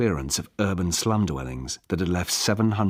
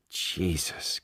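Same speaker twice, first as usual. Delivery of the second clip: whispered aside; 7 dB quieter than usual. Acted. Caroline winces away from her.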